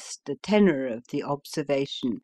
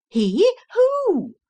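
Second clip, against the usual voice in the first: high, loud alarmed questions; startled crowd; 7 dB louder than usual. Acted. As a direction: cry out in sudden alarm. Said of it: "cried everybody".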